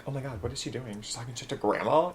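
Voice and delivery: hushed, aghast aside; inner thought. Retold or imitated. Granddaughter silently shocked at backtalk to Grandma, hushed. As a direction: say it softly, as if to yourself. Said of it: "in my little head, I'm like".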